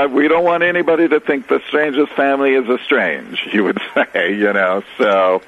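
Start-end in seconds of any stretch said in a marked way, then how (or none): 0.1-3.4 lightly put-on Italian accent, higher. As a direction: imitate an Italian father, higher pitch. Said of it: "had a very thick Italian accent".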